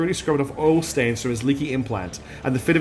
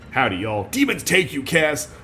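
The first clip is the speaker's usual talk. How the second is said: amateur Texan priest, lightly done; Texas accent; slower than usual. Acted. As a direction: attempt a Texan accent on a curse. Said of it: "gonna have a Texas accent".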